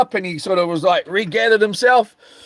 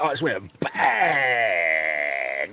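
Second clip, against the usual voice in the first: low punch sound effect; 11 semitones lower, 8 dB quieter, much slower than usual. Retold or imitated. Imitating the final punch.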